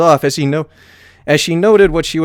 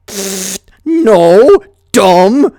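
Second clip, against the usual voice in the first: louder scornful pfft no; scoffing dragon; 4 semitones higher, 6 dB louder, much slower than usual. A narrator's reading. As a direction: scoff at the idea. Spike scoffing.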